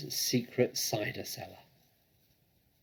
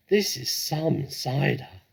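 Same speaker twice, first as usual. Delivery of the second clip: breathless; 4 semitones higher, 6 dB louder, slower than usual. A narrator's reading. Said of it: "gasped the smallest fox".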